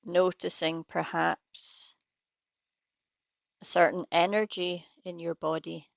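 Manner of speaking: unhurried guidance with long pauses between phrases; guided meditation. Real, not acted. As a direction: lead listeners gently into practice, leaving space after each phrase.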